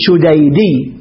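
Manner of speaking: "شديدي" slowly as shu-day-dii; drawn-out demonstration. Shown as a demonstration. Teacher shows the derived form, "شديدي" slow and syllable by syllable. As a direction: stretch the syllables of "شديدي", ending in long ii. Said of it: "نقول شديدي".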